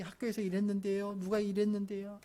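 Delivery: lightly voiced prattling kid; a hint of a chatty child telling everything; imitated child chattering. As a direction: run the words on in an even singsong stream. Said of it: "이런 얘기, 저런 얘기 막 하는 거예요".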